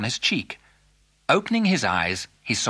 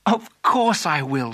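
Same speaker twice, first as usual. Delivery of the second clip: slow, emphatic glad acceptance; delighted Alice; 3 semitones higher, 4 dB louder than usual. Acted. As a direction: accept the proposal wholeheartedly. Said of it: "said Alice".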